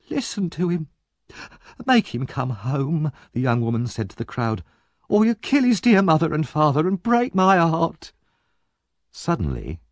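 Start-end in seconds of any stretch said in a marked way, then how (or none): 0.1-8.1 Nancy fakes a family scene; hammed-up sister cry. Nancy pleads to crowd.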